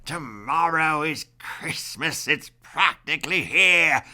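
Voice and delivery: lightly voiced sneering Grinch; snarling Grinch. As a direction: sneer it out as the Grinch, only a touch. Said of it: "He snarled with a sneer".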